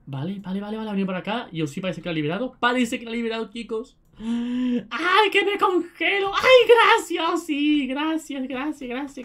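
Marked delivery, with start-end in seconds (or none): 4.2-9.2 higher and slow, drawn-out; squealing thanks. Real, not acted. Gamer rescued from freezing by a teammate, high squealing thanks. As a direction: gush with relief.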